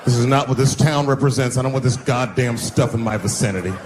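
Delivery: disapproving local man; hammed-up upright citizen; stern townsman. Voicing a white townsman.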